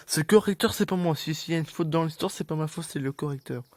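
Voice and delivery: high, defensive protest. Real, not acted. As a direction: insist it's not your fault. Protesting his innocence.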